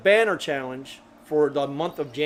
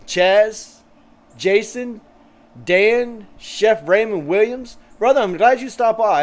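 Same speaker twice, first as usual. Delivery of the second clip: names called out higher and louder; excited shout-outs; 5 semitones higher, 6 dB louder, slower than usual. Real, not acted. Host hails each viewer by name, upbeat and loud. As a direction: rattle off each name like greeting friends.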